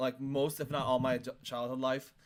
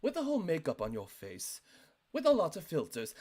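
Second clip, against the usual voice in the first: lightly put-on British accent. Shown as a demonstration. Showing how to mock it properly, in a British accent. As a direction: demonstrate a natural British accent. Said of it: "Like, stuff like that".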